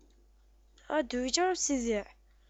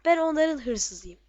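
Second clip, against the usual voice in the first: proud; 2 semitones higher, 6 dB louder, slower than usual. Real, not acted. Declaring his disguise proudly.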